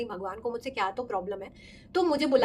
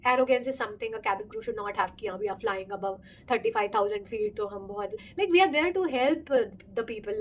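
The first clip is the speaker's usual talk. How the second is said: slow, measured English; interview answer; much slower than usual. Retold or imitated. Repeating her interview answer to the panel, slow and careful. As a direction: lay out the answer carefully, word by word.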